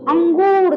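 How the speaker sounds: अंगूर with a firm ng through the nose; teacher asking the class to repeat after her; firm nasal. Shown as a demonstration. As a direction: press the ng in अंगूर. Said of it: "उसी तरह से बोलिए अंगूर".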